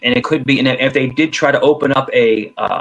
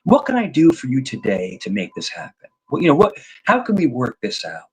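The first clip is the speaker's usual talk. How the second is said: softer, calm sales voice; calm salesman; 4 dB quieter than usual. Shown as a demonstration. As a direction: reassure the buyer gently. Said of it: "if you start talking like this".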